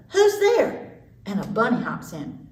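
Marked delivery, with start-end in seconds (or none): 0.1-1.0 high squeaky call; mouse cries out. Acted. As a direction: call out like a startled little mouse. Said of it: "and the mouse cries".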